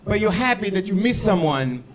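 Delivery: mock Portuguese accent, earnest explaining; hammy, uncertain Portuguese accent; attempted Portuguese accent. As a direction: put on a rough Portuguese accent. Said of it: "how to do a Portuguese accent".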